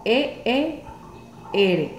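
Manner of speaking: "E E R" with a long E. Shown as a demonstration. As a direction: stretch the E sound. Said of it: "suena como". (E larga)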